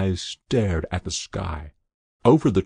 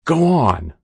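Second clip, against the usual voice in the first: hoarse and louder, higher urging; hoarsely; 6 semitones higher, 7 dB louder than usual. A narrator's reading. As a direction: push him on with a strained hoarse voice. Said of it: "said the adjutant hoarsely".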